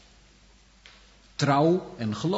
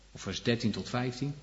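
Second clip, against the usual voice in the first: ordinary talk, nothing marked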